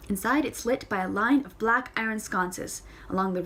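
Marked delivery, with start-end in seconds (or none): none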